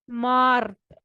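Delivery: मार्थ with a rolled r; Russian mart. Shown as a demonstration. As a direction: roll the r in मार्थ. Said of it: "Russian में आर है वो अर की sound". (मार्थ में र घुमाकर बोलें)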